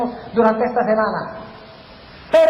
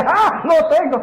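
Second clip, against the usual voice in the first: lightly voiced gloating villain, higher; a hint of triumphant devil, pitched up on the gasp; Satanás; 4 semitones higher, slower than usual. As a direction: crow a little, as if the game is yours. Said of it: "llega Satanás y hace su jugada y dice".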